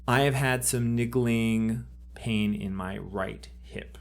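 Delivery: slow, reflective delivery with long pauses; unhurried guided-exercise voice, pausing to reflect; meditative thinking aloud. Shown as a demonstration. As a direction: think it out slowly, phrase by phrase.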